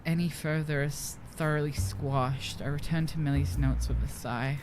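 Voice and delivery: a hint of a low nerdy narrator; lightly voiced Redditor. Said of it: "talk in my Redditor voice".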